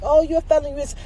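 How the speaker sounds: high, loud mimicry of hecklers; jeering imitation, voice jumping up; mocking imitation. Mimics people who mock felons.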